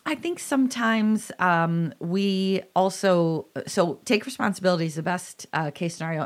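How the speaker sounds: talking stunted around mouth pain; with a mouth ulcer. Real, not acted. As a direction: speak carefully around a sore mouth. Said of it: "So if I'm talking a little stunted, that's why".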